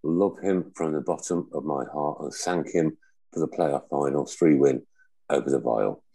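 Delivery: reading a message. Acted. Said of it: "I'm just gonna read this now".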